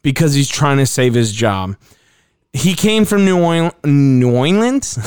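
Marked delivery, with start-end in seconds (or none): 2.5-5.0 cartoon character voice. Real, not acted. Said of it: "he sounded like a cartoon character".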